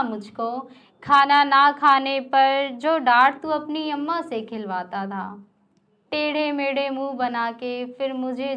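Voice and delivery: wistful verse, lines repeated; poem recitation. Acted. Poet reciting a love poem to the audience, wistful recitation.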